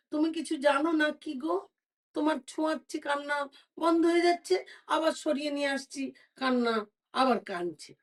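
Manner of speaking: baffled mother at her wits' end; distressed queen. Acted. Queen tells the beggar her baby won't calm, high distressed voice.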